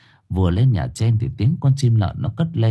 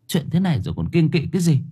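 quick, higher-pitched comeback; impatient retort; 5 semitones higher, faster than usual. Acted. Wife dismisses her husband's superstition about night incense, impatient. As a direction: retort fast, brushing off the objection. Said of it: "Bà Thu đáp".

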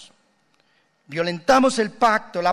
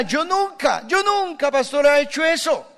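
high prim protest, much higher; mock self-righteous churchgoer; 9 semitones higher than usual. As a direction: play the pious denier, pitched way up. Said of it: "usted dirá". (feligrés santurrón, muy agudo)

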